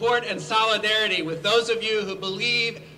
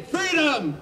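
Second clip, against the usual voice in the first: higher called-out cry; calling the crowd to answer; rally cry; 5 semitones higher than usual. Shown as a demonstration. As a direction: shout it out to lead the chant. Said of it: "let me hear you say".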